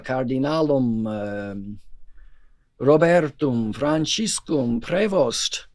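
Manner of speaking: slow, formal Latin proclamation; measured Latin roll call; solemn papal announcement. Retold or imitated. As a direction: intone it like the loudspeaker announcer. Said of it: "He comes on and he says".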